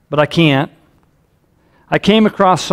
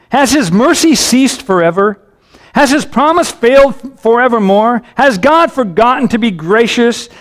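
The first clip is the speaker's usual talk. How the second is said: higher-pitched, pleading questions to God; anguished psalm reading; 5 semitones higher than usual. Acted. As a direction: press each question as an anguished plea. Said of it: "Do you hear the anguish".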